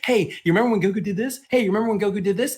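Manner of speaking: fast mock-eager nudge; mocking callback. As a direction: rattle it off like an overeager reminder, mockingly. Mocks writers recycling old moments.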